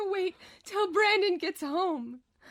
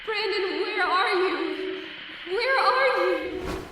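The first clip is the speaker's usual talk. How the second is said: slow, rising plaintive call; 3 dB louder than usual. Acted. Tulpa calling for Brandon, slow and plaintive. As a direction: call into the empty flat.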